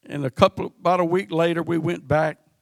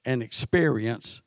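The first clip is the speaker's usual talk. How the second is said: scripture reading; 3 dB louder than usual. Acted. Reads scripture aloud.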